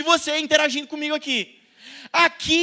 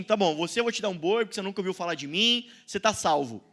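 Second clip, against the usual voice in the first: God's voice; 5 semitones lower, 5 dB quieter, faster than usual. Acted. God voiced gently in sermon.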